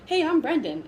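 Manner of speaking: high, bright imitated greeting; quoting Brendan. Retelling meeting, quoting Brendan.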